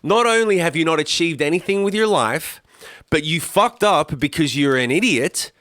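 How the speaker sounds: retold livid tirade. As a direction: chew them out slowly, drawing out the insult. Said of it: "I was livid".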